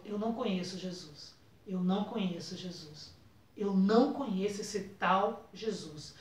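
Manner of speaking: a hushed, fearful denial of Jesus; quiet denial. Retold or imitated. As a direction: deny him quietly, as if ashamed. Peter denying Jesus, retold.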